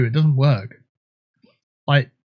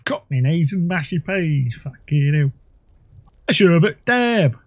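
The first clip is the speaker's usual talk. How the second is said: badly faked Cockney at usual pitch; mock Cockney voice. Player botching rhyming slang on purpose, mock Cockney accent. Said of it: "Obviously, I enjoy that voice".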